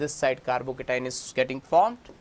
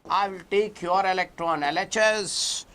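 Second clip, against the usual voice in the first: a moderately loud, higher call to both sides; shouting oxygen; 4 semitones higher, 3 dB louder than usual. Acted. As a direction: demand the electrons from left and right, half-shouting. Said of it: "Now he started shouting on both the carbons".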